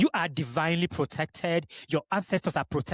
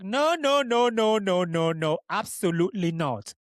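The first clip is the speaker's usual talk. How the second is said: mock emphatic denial. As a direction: play at denying it hard, then drop it. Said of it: "I was like".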